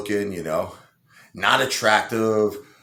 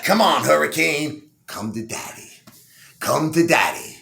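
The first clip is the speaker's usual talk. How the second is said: eager come-on; 7 semitones higher, 4 dB louder than usual. Acted. Eager client calling her over.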